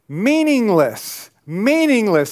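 slow, arched high cry on each word; dramatic scripture reading. A narrator's reading. Preacher reads the Teacher's opening words to the congregation, slow dramatic reading. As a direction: draw each word out like a proclamation.

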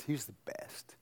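unvoiced, breathy whisper. Real, not acted. Preacher remembering his dad, in a whisper. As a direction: hush it like a fond secret.

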